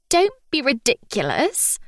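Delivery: high, posh English dismissal; well posh. A narrator's reading. Stranger in the bed rebuffs the patient, posh English accent. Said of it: "She sounds well posh".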